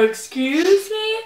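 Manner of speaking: high, slow, offended "Excuse me?"; indignant retort. Retold or imitated. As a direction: draw it out high in disbelief. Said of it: "I was like".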